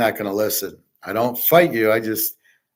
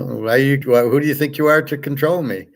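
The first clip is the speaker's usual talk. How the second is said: mock confrontation, pitched up in indignation; indignant telling-off; 3 semitones higher than usual. Retold quarrel with his ex.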